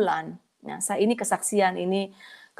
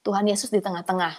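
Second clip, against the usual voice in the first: usual speaking voice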